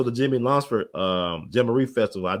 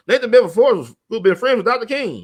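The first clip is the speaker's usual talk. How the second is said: mock incredulous; 11 semitones higher, 8 dB louder than usual. Mocking a claim he dismisses.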